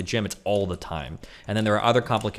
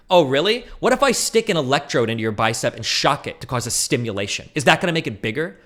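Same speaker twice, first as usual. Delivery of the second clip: smug gotcha; 2 semitones higher than usual. Retold or imitated. Imagined opponent smugly posing a gotcha. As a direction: needle him with a smug question. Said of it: "mock opponent rebuttal".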